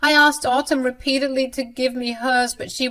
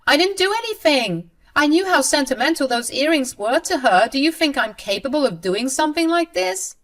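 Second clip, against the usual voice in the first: high, louder tearful pleading; mock crying plea; 8 semitones higher, 5 dB louder than usual. Mother-in-law pleading with her son, high fake-tearful voice. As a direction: fake tears to win her son over. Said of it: "She kept crying and said".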